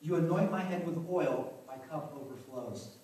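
lightly solemn psalm recital; scripture reading. Acted. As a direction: read the verses with reverence. Reads Psalm 23 aloud.

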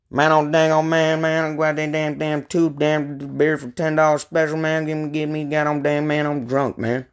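lightly voiced rambling drunk Texan; Boomhauer impression. Friend rambling drunk at the bar, lightly voiced Boomhauer mumble. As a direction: slur through it like a buzzed good ol' boy. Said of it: "a Boomhauer friend in our group".

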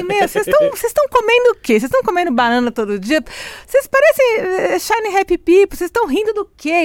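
imitação exagerada e alta do colega implicante; zombando do amigo. Retold or imitated. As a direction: tira sarro com voz aguda e alta. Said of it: "Ele falava assim". (colega zoando os residentes, voz aguda e alta)

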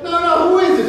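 high-pitched imitated Italian-American ma; Italian mother. Mother answering her son's call, imitated high Italian mother voice. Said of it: "And she's like".

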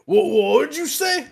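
high, loud incredulous challenge; taken aback, pitch jumping up; disbelieving demand, imitating a teacher; shocked teacher. Teacher startled by overheard swear word.

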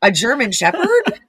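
incredulous question with rising pitch; baffled echo. Retold or imitated. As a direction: repeat it back slowly, totally confused. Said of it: "so confused".

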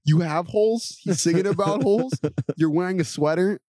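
high-pitched impression of an intrigued woman; white chick. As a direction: raise the voice into questioning girlish surprise. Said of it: "some white chick's like".

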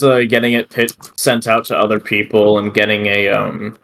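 high and fumbling for words; stoned. Real, not acted. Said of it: "sorry, I'm very high right now".

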